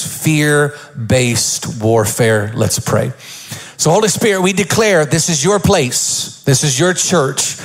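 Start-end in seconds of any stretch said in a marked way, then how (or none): 3.8-7.6 preacher's prayer. Real, not acted. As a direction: pray it over the church with conviction. Opening prayer.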